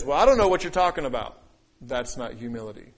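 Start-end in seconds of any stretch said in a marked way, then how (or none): 0.0-1.4 louder, dismissive pride; proud, not humble. Shown as a demonstration. Preacher showing what humility doesn't sound like, proud and dismissive. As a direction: brush them off with raised volume. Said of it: "Humility doesn't sound like this".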